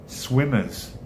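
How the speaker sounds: SWIMMERS tried in an American accent. Shown as a demonstration. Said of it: "say that with an American accent".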